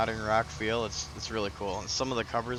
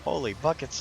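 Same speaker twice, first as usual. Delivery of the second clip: imitating Richard; 4 semitones higher than usual. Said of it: "he goes".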